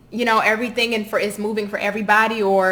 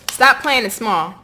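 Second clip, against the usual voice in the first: slow, louder scolding; reprimanding; 2 semitones higher, 5 dB louder, slower than usual. Real, not acted. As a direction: reprimand them firmly, drawing the words out. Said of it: "now I'm getting ready to reprimand you".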